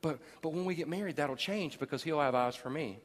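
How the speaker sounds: put-on soft, dismissive girlfriend voice; naive girlfriend. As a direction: brush it off gently. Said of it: "I've had girls tell me".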